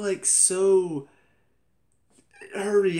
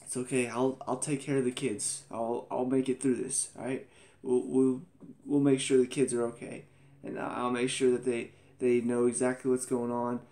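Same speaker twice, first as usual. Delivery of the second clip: talking normally, imitated. Widow at husband's body promising to mind the kids, matter-of-fact. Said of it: "like, talking normally".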